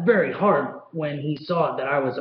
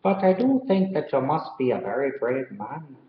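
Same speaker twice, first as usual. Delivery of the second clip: put-on a light Irish accent as a kind policeman; storyteller trying an Irish brogue. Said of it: "that was a pretty good Irish accent".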